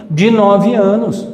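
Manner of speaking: ordinary talk, nothing marked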